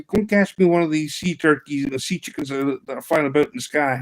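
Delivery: imitated Southern boy; Southern boy accent. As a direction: put on an eager Southern US accent. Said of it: "pure Southern boy accent".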